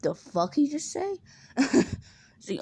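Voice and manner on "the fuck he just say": mock indignant. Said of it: "Zuko gets like".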